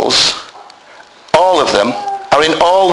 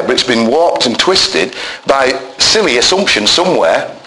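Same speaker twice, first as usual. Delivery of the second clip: ordinary delivery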